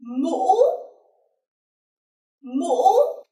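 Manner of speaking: "mũ" catching, then shooting up high; high broken rising tone. Shown as a demonstration. Teacher giving the word for hat, high rising tone. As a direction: break "mũ" mid-vowel and swing it upward. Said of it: "other illustration for this tone".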